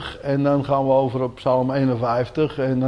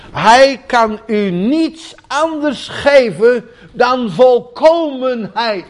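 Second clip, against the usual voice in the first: raised, slow preaching with rising fervour; fervent preaching; 8 semitones higher, 4 dB louder, slower than usual. Acted. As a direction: proclaim it slowly from the pulpit. Preaching on God's perfection.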